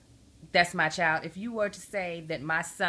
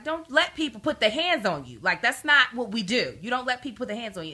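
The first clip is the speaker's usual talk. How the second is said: firm, louder telling-off; retold parental scolding; 3 semitones higher, 5 dB louder than usual. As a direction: lecture a child, punching the words. Mother lecturing her son in retelling.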